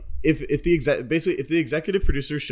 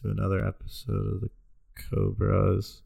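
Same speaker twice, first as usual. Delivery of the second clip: fed up; 2 semitones lower than usual. Pretend. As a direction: drag through the welcome, totally over it. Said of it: "You're super just done with it".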